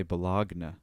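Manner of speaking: Bologna said the way it's spelt; spelling pronunciation. Shown as a demonstration. Speaker guessing from spelling how people say Bologna, spelling pronunciation. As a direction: sound out Bologna as it is written. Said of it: "the way it's spelt".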